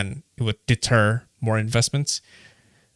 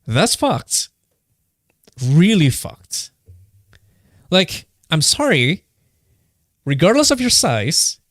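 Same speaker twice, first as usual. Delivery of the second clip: indignant, higher-pitched, leaning on key words; real anger; 3 semitones higher than usual. Real, not acted. Podcaster angry at businesses underpaying their workers, indignant. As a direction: let the outrage rise, then land the verdict. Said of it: "I'm getting really angry".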